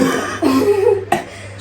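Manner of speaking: high-pitched burst of laughter; amused laugh. Real, not acted. Prankster after being told not to yell, amused laugh.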